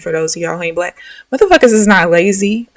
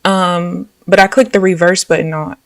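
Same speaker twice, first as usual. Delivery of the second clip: ordinary delivery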